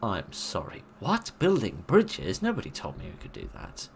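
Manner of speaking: genuinely stunned, then a breathy aside; surprised disbelief. Real, not acted. Gamer reacts to briefing, stunned surprise.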